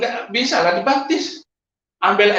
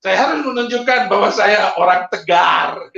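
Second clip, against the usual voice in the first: emotional. Real, not acted. Recalling holding back tears.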